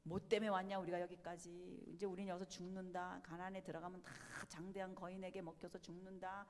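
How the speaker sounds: low, hushed grumbling in a quick run; low murmured complaint, mildly acted; retold grumbling. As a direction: imitate a crowd's resentful murmur, kept soft and low. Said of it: "울고 불고 원망하고".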